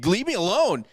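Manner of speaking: high, drawn-up retold plea; mock pleading. Acts out recoiling from the ranter.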